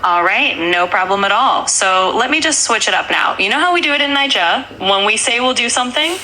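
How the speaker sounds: American voice trying to sound Nigerian; half-hearted Nigerian accent over American speech; attempted Nigerian accent. Shown as a demonstration. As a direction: try a Nigerian accent but stay mostly American. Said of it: "trying to sound Nigerian".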